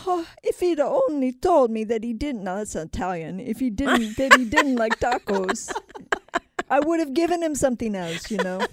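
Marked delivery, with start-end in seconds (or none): 0.1-2.4 high, loud, hammed-up lament; mock sobbing. Pablo's widow at the funeral, mock wailing. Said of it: "they're all sobbing". 3.4-8.7 high-pitched, hammed-up widow's lament; mock sobbing. Pablo's widow regretting the tacos, mock wailing. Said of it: "they're all sobbing".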